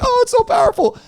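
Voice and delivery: high, airy mock-gushing voice; gushing audience mimicry. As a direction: gush like an overawed audience. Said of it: "everybody's like".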